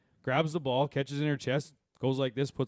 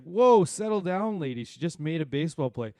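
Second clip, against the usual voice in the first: calming yell; 3 semitones higher, 4 dB louder than usual. Retold or imitated. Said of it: "one of our parents was just like".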